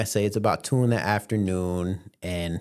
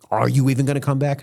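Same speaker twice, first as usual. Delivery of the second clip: louder, higher, quick imitated demand; exasperated mom; 6 semitones higher, 6 dB louder, faster than usual. Mom demanding son's return, louder exasperated imitation. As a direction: push the question up and out fast.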